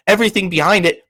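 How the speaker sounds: ordinary delivery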